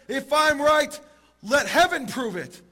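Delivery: loud, high plea, drawn out at the end; desperate calling out. Acted. Rabbi begging heaven to prove him right, calling out. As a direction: cry out to the skies in desperation. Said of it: "in utter desperation, he calls out".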